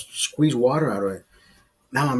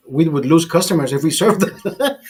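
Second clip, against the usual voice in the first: said through a laugh, a bit louder; 3 semitones higher, 3 dB louder than usual. Retold or imitated. Junior telling Oscar they'd lose customers, laughing. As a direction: laugh it out in disbelief.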